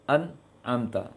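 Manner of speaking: "an'amta" with the nun cut off; wrong recitation. Shown as a demonstration. Teacher showing the mistake, cut-off nun. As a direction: stop the n short in "an'amta". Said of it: "Terhenti dia".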